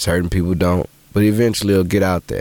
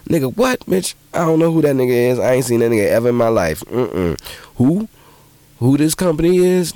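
incredulous; 5 semitones higher than usual. Retold or imitated. Mock incredulous reaction.

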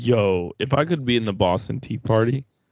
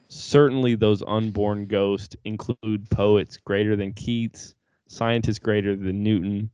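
reading a poem. Acted. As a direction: read it like a recital. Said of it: "Can I read you a poem?".

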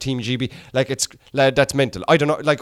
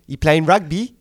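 lightly imitated South African accent; 3 dB louder than usual. Comic playing a South African rugby fan, mock accent. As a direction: mimic a South African asking. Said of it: "they have a crazy accent".

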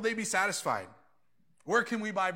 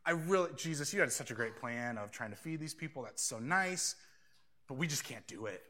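nonchalant; 5 semitones lower than usual. Retold or imitated. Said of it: "nonchalantly saying".

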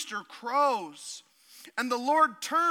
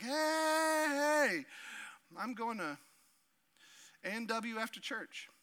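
hammed-up small-town Wisconsin accent; 7 dB quieter than usual. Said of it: "sounds like squeaky cheese from Wisconsin".

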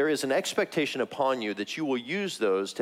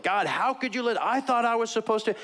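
higher, whiny mock protest; mock complaint to God; 9 semitones higher than usual. Preacher imitating an upset man protesting to God. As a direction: voice a hurt complaint at God, half-joking. Imagined angry prayer to God.

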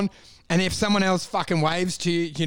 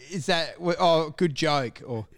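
low, hesitant dry delivery; mock-sincere deadpan response; dead-air deadpan; 4 semitones lower, 3 dB quieter than usual. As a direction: leave it hanging, low and straight. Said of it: "you dead air it".

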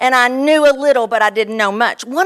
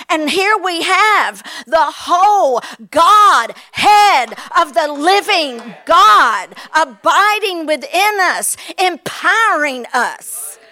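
raised, ringing preacher's proclamation; fervent preaching; 3 dB louder, slower than usual. Acted. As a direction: proclaim it to the whole congregation. Preaching at full force.

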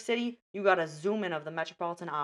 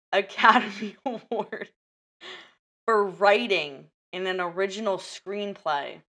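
trying not to laugh; 5 dB louder than usual. Real, not acted. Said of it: "Why are you laughing?".

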